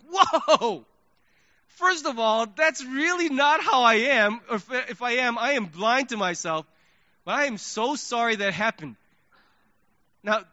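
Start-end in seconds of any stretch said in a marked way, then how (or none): 0.0-8.9 caught off guard. Retold or imitated. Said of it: "I'm like".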